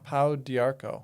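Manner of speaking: "Pau d'Arco" slowly copied as pow dee-ARK-oh; "Pau d'Arco" echoed slowly; repeating carefully. Shown as a demonstration. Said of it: "help me with the pronunciation".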